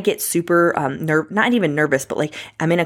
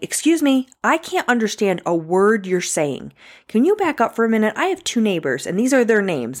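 indignant retort; 5 semitones higher than usual. Retold or imitated. Retold retort to irate caller.

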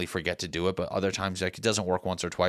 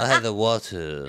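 "water" with a dropped R, through laughter; laughing imitation. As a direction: mimic the slip while cracking up. Laughing while mimicking the slip.

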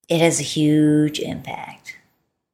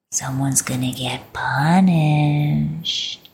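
mock threat; 2 semitones lower, much slower than usual. Playful threat to partner.

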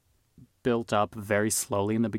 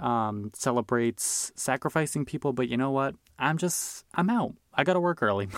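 mock-casual brush-off, pitched higher; breezy polite exit; 3 semitones higher than usual. Claire politely bailing on a cult dinner, a higher, breezy mock-casual brush-off. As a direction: play it as a cheerful excuse to escape a creepy party. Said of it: "she was just kinda like".

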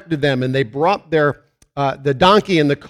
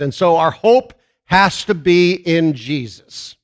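preaching at full force; 3 semitones higher, 4 dB louder, slower than usual. Acted. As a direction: proclaim it to the congregation, loud and deliberate. Preaching builds to a loud proclamation.

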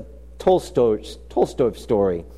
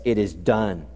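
poem recital; 5 semitones lower than usual. Shown as a demonstration. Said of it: "the line of the writer goes like this".

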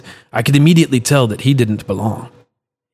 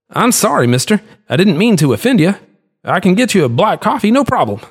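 placating merchant; 9 semitones higher than usual. Acted.

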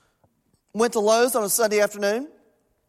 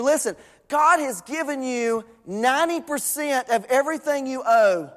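earnest preaching; 3 semitones higher than usual. Acted. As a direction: preach it in rolling, insistent phrases. Preaches with emphasis.

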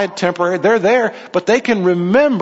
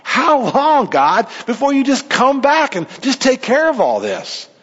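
raised, higher pleading lament; pleading question to God; 5 semitones higher than usual. Acted. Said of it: "people in this intermediate heaven are asking God".

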